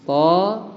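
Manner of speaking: "Toha" split into two held syllables; teacher's syllable-by-syllable "Toha"; measured recitation. Shown as a demonstration. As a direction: say "To", pause, then "ha". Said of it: "Bacanya itu".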